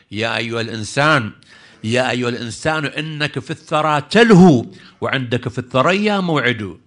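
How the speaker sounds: measured declamation with lengthened line ends; poem recitation. Acted. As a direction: declaim the verse to a congregation.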